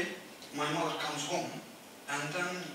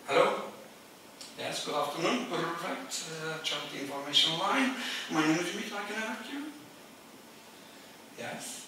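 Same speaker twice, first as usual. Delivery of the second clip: phone helpline answer; 2 semitones higher than usual. Pretend. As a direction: answer a caller politely. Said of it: "like this one".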